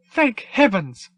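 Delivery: very high, slow relieved droid voice; robotic sigh of relief. Acted. The droid sighs with relief after the fight ends, high and slow. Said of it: "with a robotic sigh of relief".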